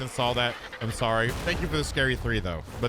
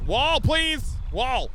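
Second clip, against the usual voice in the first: pleading; 7 semitones higher, much slower than usual. Real, not acted. Pleading with game.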